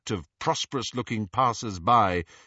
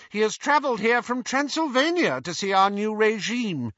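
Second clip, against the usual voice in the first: haughty Bellatrix; 9 semitones higher, 4 dB louder than usual. Acted. Hermione voicing Bellatrix.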